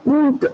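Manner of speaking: ऊंट with a lengthened nasal ऊं; long sound. Shown as a demonstration. Teacher repeating the long sound, ऊंट stretched out. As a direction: draw out the vowel of ऊंट before the ट. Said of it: "थोड़ा सा लंबा sound आ रहा है".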